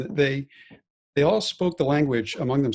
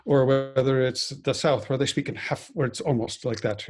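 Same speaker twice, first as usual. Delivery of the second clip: Irish dialect demo, Dublin then the South; light Irish accent, sampling dialects. Shown as a demonstration. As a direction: show off Irish regional accents. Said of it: "dialects of the Irish accent".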